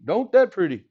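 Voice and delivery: a light Cajun lilt on "Don't that pretty"; just a hint of Cajun, almost his own voice; Cajun saying. Teacher admiring his graph, lightly Cajun. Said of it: "That's how they say it in Cajun land".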